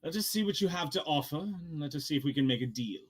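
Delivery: measured character voice, proposing a deal; hint of a bargaining character; lightly voiced dealmaker. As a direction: lightly play a formal negotiator. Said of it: "he turns to you and goes".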